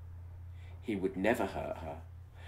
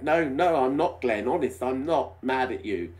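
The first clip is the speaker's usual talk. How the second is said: stammering; 6 semitones higher, 8 dB louder than usual. Acted. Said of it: "she stammered".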